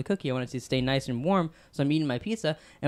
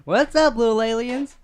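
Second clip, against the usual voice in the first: loud, high, playful hello; excited greeting; 7 semitones higher, 5 dB louder than usual. Real, not acted. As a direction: bounce in with a big hello.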